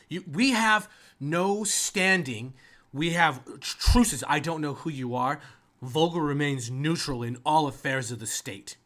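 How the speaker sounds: high, loud, flustered protest; mayor beside herself. Acted. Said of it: "she is beside herself".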